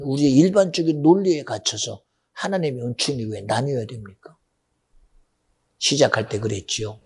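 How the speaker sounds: normal talking voice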